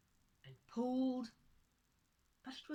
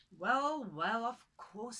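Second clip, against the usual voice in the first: louder, hesitant, taken aback; flustered woman; 2 semitones higher, 10 dB louder, much slower than usual. Acted. Woman answering the tiny man, flustered and louder. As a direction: stammer out a startled yes. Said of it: "said the woman".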